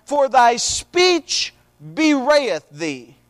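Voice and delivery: slow, drawn-out Bible reading; scripture reading. A narrator's reading. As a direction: read the verse deliberately, stretching the quoted words. Reads scripture aloud.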